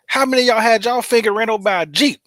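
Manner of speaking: loud, high laughing tease. Real, not acted. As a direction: tease him through laughter. Mock boast, laughing.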